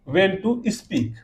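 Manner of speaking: very slow, each word apart; slow dictation. Shown as a demonstration. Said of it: "teacher dictating example phrase". (धीरे-धीरे बोलकर लिखवाना)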